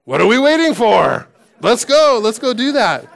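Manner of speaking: rally the troops for a doomed charge; Gimli. Retold or imitated. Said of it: "Gimli's remark on Return of the King says".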